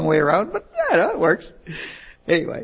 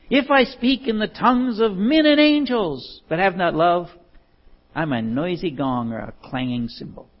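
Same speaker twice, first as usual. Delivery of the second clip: scripture recitation; 3 semitones higher than usual. Acted. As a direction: proclaim the verse like a preacher.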